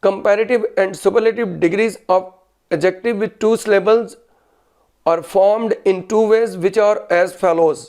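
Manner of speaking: slow, deliberate dictation pace. Shown as a demonstration. Teacher dictating a grammar rule to students, slowly. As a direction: spell it out slowly so students can write. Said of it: "लिखिए आप".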